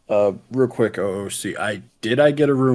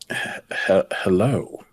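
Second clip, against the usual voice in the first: awkward stammer. Acted. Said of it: "awkwardly say".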